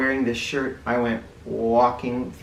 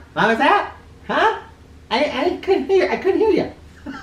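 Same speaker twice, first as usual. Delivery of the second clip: high, loud, laughing mock confusion; joking with the children, laughing; mock not hearing; 5 dB louder than usual. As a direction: pretend you can't hear a thing. Pretends not to hear, joking.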